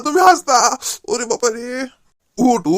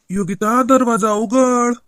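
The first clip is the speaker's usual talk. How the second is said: ghost voice; 2 semitones lower, slower than usual. Acted. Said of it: "याच्या आवाजात तो भूतच बोलून राहिला".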